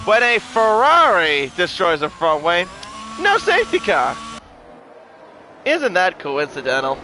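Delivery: dry sarcastic emphasis on no; pointed, mocking disbelief. Real, not acted. Sarcastic jab at Ferrari favouritism.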